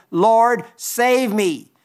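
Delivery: mild cry for help. Acted. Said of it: "he cried, saying".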